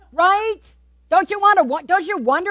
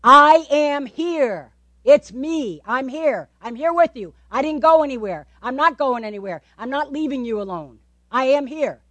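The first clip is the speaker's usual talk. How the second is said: emphatic Jesus. Acted. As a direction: insist that you are right here. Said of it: "I see an exclamation point in the scriptures".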